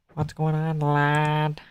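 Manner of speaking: quiet cheeky British greeting; a hint of a British lad; mock British accent.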